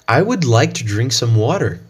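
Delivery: American English reading, r in water; American accent. Shown as a demonstration. Teacher repeats the sentence in an American accent. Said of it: "the phrase using the American accent".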